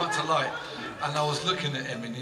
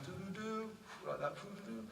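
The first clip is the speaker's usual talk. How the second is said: panpipe imitation; 8 semitones higher, 11 dB quieter than usual. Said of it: "he was playing the panpipe".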